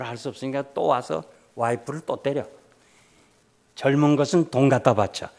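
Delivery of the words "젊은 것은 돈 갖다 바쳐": loud angry rant; mock husband's furious yelling; angry shout. Husband yelling at his wife over offerings, mock angry shout. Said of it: "막 화를 냈어".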